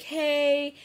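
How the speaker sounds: high, loud call after a cab; hailing shout. Retold or imitated. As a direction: holler to flag it down. Helpers hail a passing cab.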